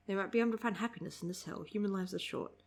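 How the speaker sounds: soft, hurried read-aloud; understated manga line reading; reading dialogue. Acted.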